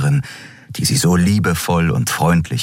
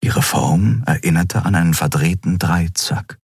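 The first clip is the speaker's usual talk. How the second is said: usual speaking voice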